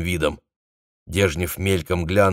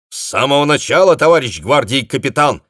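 high, loud, cheerful report; brisk reply; 6 semitones higher, 6 dB louder than usual. A narrator's reading. Messenger briskly answers the captain. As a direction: snap out the answer with spirit. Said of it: "бодро ответил связной".

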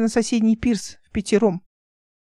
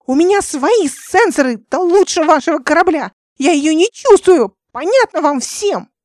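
Nika screaming at the crew before bursting into tears; hysterical shout; 7 semitones higher, 7 dB louder than usual. A narrator's reading. Истерический крик на грани рыданий. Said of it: "Она разрыдалась".

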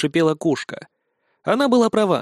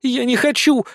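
crying whine; 8 semitones higher than usual. A narrator's reading. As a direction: whine it as if about to cry. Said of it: "протяжным плачущим тоном произнесла". (протяжно, плачущим тоном)

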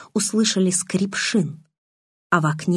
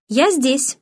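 a higher call from another room; calling back; 7 semitones higher than usual. A narrator's reading. Daughter answers her father from the kitchen, raised call. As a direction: call out to let dad know where you are.

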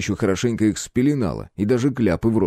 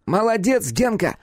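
praising; 12 semitones higher than usual. A narrator's reading. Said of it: "похвалил зверя Хлюпа".

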